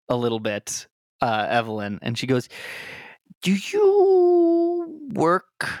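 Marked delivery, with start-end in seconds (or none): 3.4-5.7 slow, wary diva voice; drawn-out suspicious question; suspicious actress. Acted. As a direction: eye them with slow suspicion.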